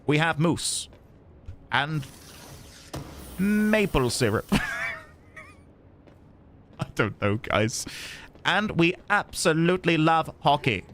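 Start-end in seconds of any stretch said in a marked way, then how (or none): 0.1-0.9 lightly put-on Canadian accent; mock Canadian accent. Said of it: "meant to be in Canada". 1.7-4.5 mock Canadian accent. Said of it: "meant to be in Canada". 8.5-10.8 hammed-up Canadian accent; mock Canadian accent. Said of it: "any more stereotypes".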